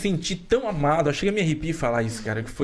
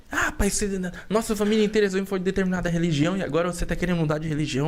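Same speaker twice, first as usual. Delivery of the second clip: mildly voiced mother; 4 semitones higher, faster than usual.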